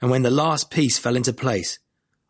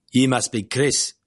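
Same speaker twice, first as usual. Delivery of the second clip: put-on South African accent. A narrator's reading. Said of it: "he said with a clipped South African accent".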